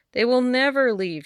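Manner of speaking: put-on old woman shouting at the endless fairies. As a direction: cry out in despair. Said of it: "shouted the old woman".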